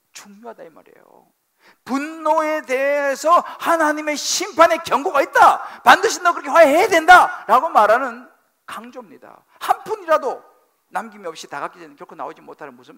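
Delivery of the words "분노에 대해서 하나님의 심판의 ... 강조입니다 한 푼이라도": preaching at full force. Acted. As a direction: stress the warning without mercy. Emphatic preaching on judgment.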